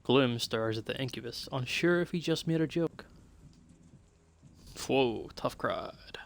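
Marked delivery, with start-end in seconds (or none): 4.9-6.2 slow whispered aside; whispering. Acted. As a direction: murmur it under your breath. Aside after a failed joke.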